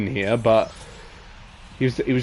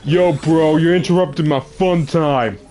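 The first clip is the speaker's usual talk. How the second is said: gym bro; 4 semitones higher, 5 dB louder than usual. Pretend. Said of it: "Like a gym bro?".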